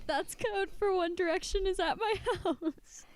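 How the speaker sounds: real giggles breaking into the words; laughing through it. Real, not acted. Friend laughing while explaining their band code.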